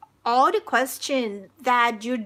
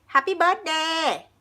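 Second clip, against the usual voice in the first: Thai accent; 3 semitones higher, much slower than usual. Shown as a demonstration. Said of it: "in Thai accent".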